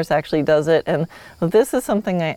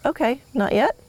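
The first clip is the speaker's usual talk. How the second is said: higher, lightly apologetic acknowledgement; accepting backing-off; 7 semitones higher than usual. Acted. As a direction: back off politely, pitched up. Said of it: "come back and go".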